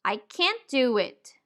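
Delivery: "can't" with an open a as in cat; full-vowel "can't". Shown as a demonstration. Teacher showing a simple negative sentence, full-vowel can't. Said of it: "The simple negative can't should sound like".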